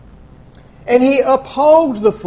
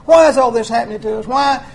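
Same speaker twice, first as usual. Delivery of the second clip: higher, whiny complaining; whining Israelites; 4 semitones higher than usual. Retold or imitated. Israelites whining about Egypt, mocked by the preacher. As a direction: moan like a grumbler. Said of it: "and what with".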